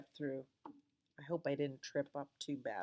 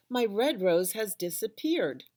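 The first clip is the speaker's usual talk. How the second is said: loud, high upset cry; wailing; 5 semitones higher, 10 dB louder than usual. A narrator's reading. Rosie upset her rose vanished, loud wail. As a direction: keep the wail going. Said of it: "she wailed".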